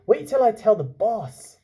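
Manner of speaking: put-on young man's voice. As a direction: run off thrilled. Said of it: "he said".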